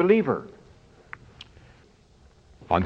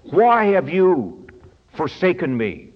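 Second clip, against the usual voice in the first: cry of forsaken; 3 semitones higher than usual. Retold or imitated. Preacher voicing Christ's cry from the cross, anguished. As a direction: cry it out to heaven. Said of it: "caused Him to cry out".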